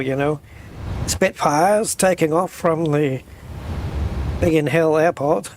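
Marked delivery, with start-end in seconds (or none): 1.1-5.5 put-on old British war-news accent. Imitating reporters of news from the war, old British news accent. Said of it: "that way of talking when they're reporting the news from the war".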